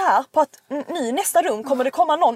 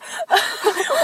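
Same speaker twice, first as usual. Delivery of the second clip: imitated panting, higher in pitch; panicked breathing; 8 semitones higher than usual. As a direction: mimic a frightened friend gasping for air. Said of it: "och du vet, andas". (härmad panikandning)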